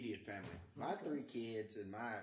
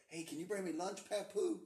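put-on high kid voice; 6 semitones higher than usual. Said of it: "or they're calling me to".

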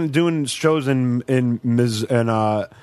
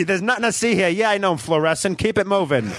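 lightly voiced brash New York butterfly, a bit higher; sassy butterfly; 5 semitones higher than usual. Comic to friends, playing a sassy Pixar butterfly, lightly higher. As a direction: strut it like a fabulous diva butterfly. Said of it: "brash New York voice".

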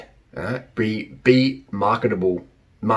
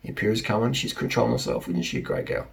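put-on admiring boyfriend; 6 dB quieter than usual. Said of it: "your guy will be like".

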